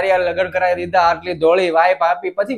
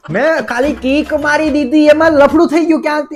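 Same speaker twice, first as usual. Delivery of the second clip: indignant protest; 5 semitones higher than usual. Acted. Husband protests affair accusation.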